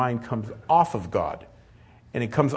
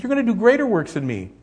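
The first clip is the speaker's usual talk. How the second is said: much higher and louder, ringing out; fervent promise; 11 semitones higher, 4 dB louder, faster than usual. Retold or imitated. Jesus promising his followers greater works, fervent and high. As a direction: proclaim it with rising fervor. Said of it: "he even said, he says".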